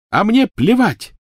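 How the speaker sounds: high, loud, slow shriek. Acted. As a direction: shriek it back at him. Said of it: "завопила Гермиона".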